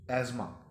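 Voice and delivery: एज़मा as EZ-ma, th silent; correct "asthma". Shown as a demonstration. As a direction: say एज़मा with a buzzing z, no t. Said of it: "अस्थमा नहीं".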